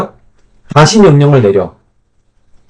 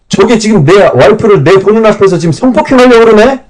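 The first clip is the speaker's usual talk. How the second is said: high, shocked and indignant, in a voice unlike the narrator's own; a husband's disbelieving fury; 왕의 분노한 외침; outraged king; 8 semitones higher than usual. Retold or imitated. Furious king sees Haman with queen.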